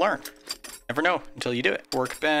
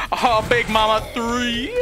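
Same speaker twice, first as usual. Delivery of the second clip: counting off; 9 semitones higher than usual. Acted. Counting off zombies, final one.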